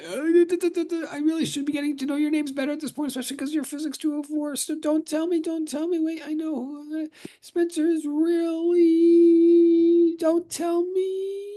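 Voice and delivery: teacher stalling while recalling a student's name; straining to remember. Real, not acted.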